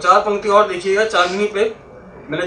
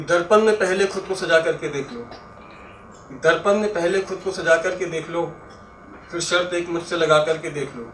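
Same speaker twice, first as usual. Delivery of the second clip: poetry recitation. Acted. Recites a four-line verse.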